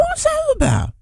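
high mock outrage; mock indignant echo. Echoing the partner about fancy chips in mock outrage. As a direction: squeak the question up in disbelief.

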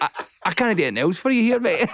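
fast, exasperated giving up. Retold or imitated. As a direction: rattle it off in defeat. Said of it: "I'm like".

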